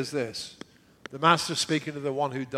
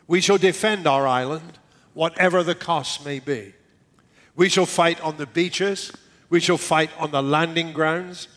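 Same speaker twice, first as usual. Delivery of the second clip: Churchill speech; 3 dB louder than usual. Retold or imitated. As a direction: declaim like a wartime speech. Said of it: "And he said this".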